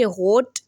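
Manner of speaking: होट with the German R as a throaty ग़ sound, said slowly; German होट, rolling the R at the back of the throat. Shown as a demonstration. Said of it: "गैन की आवाज़ लेकर आनी है".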